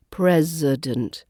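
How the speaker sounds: slow "president", showing the uh after the S; schwa in president. Shown as a demonstration. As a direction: draw out "president" as PREZ-uh-dent. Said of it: "it's that I after the S, which is the uh".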